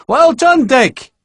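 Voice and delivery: a rowdy shout of praise; cheering. Acted. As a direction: cheer him on from the crowd. Farm boys cheering him.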